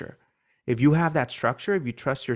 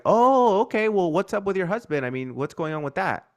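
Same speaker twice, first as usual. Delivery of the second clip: curious tone; 6 semitones higher than usual. Shown as a demonstration. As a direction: sound eagerly curious about her husband. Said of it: "So my tone of voice is like".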